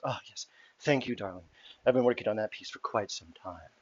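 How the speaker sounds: lightly voiced haughty mermaid diva; vain performer mermaid. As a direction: play a hint of a gracious, self-satisfied performer.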